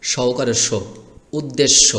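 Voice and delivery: teacher spelling out "উদ্দেশ্য" with an o ending; unwritten o-kar sounded. Shown as a demonstration. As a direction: end "উদ্দেশ্য" on a clear "sho". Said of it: "একটা মনে মনে ওকার ধরবেন".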